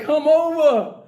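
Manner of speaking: high, sing-song come-on to lure them in; sugary bait voice, slow on the cookies; hammed-up friendly trap; mock sweet luring. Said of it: "we're there like".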